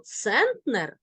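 центнер stressed on цент; stress on first syllable. Shown as a demonstration. Teacher showing the exception, front stress. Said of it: "на перший склад".

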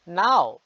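"নাও" said as nao, not nor; teacher models "নাও" for learners; Portuguese não. Shown as a demonstration. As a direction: say "নাও" with a clear nasal nao. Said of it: "নাও উচ্চারণ করে তারা".

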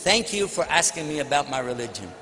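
low, measured politeness; calm courtesy. Retold or imitated. Muslim answering an insulting questioner without getting angry, calm courtesy. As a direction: answer evenly, keep the voice low.

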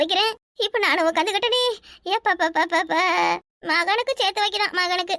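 self-pitying dirge with trailing, stretched endings; theatrical lament. Acted. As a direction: keep moaning about your lot like a mock mourner. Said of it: "எதுக்கு இப்படி ஒப்பாரி வைக்கிறீங்க". (ஒப்பாரி போல புலம்பல்)

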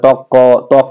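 "ত্বক" with an added long "ক"; drawn-out ending, as counterexample. Shown as a demonstration. Teacher showing how we don't say it, drawn-out ending. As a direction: stretch the final k of "ত্বক" into a syllable. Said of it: "একটু দীর্ঘ করে বলি না".

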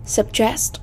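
"suggest" as a word-stress example, sug-GEST; second-syllable stress. Shown as a demonstration. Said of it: "âm thứ. Hai".

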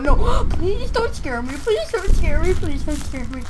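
frightened pleading. Real, not acted. Begging game not to scare.

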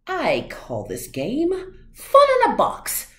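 building up to a high loud reveal; showman announcement. A narrator's reading. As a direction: announce it like a ringmaster. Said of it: "said the cat".

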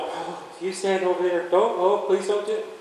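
timid pleading. Acted. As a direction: plead weakly, as if afraid of the horse. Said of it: "this little quiet in the mirror".

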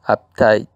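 "uptight" with force on TIGHT; "uptight" stressed at the end, on "tight"; stress on second syllable. Shown as a demonstration. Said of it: "en la segunda sílaba donde va la T".

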